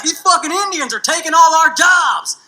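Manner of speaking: hammed-up redneck shout; racist redneck rant. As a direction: bark it like an angry redneck. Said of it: "some racist redneck would be like".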